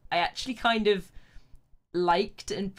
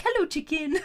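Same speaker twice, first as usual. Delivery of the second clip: higher, playful pet call; greeting a pet; 8 semitones higher, 4 dB louder than usual. Retold or imitated. Streamer shows how they greet their cat Chicken, higher pet voice. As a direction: imitate calling your cat, laugh close behind. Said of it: "where I call my cat Chicken".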